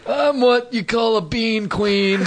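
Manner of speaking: high, slow put-on Mexican accent; Mexican accent impression. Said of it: "your impression of a Mexican".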